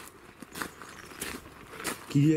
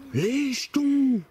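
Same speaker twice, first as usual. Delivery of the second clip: scared exclamation; 6 semitones higher, 3 dB louder, much slower than usual. Real, not acted. Startled by a voice, scared.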